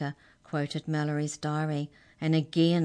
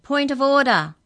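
high, very loud interjection; cried out; 10 semitones higher, 12 dB louder than usual. A narrator's reading. Mouse interrupting the court, loud cry. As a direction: cry out to halt proceedings. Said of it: "a voice cried".

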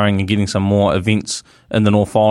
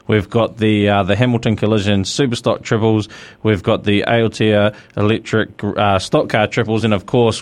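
upbeat radio promo read; speedway promo read. Acted. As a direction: rattle off the event details like an ad. Host reads event promo.

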